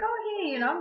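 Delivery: high, lilting hello; retold friendly greeting. Retold greeting to returning nurse.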